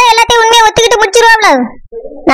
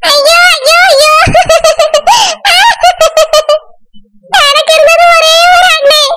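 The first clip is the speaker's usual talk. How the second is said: fake wailing; 4 semitones higher than usual. Wife fakes grief over brother.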